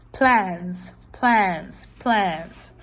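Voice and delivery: "plans" repeated as one beat; syllable demo. Shown as a demonstration. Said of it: "one time".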